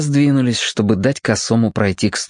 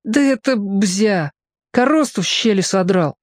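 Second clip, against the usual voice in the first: put-on sulky boy; 10 semitones higher than usual. A narrator's reading. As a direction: shrug it off like a scrawny kid. Captive boy explaining.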